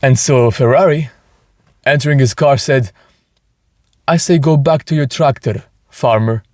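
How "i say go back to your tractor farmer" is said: put-on a light, self-admitted rough Italian accent; dismissive Italian accent, only lightly done. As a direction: sneer it at the farmer in a so-so Italian accent. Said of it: "My Italian, Italian accent is, is not great".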